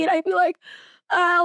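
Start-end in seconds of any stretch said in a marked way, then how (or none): 1.1-1.4 high imitated sob; mock crying wail. New mom asked about baby, mock crying wail. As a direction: let out a pretend wail, pitched up. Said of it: "like, crying again".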